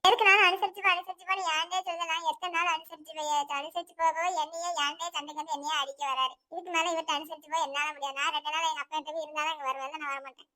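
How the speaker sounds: soft, tearful protest; tearful complaint. Acted. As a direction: complain softly as if worn down by crying. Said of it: "இப்படியே அழுதுகிட்டு இருந்தா சரியாயிருமா".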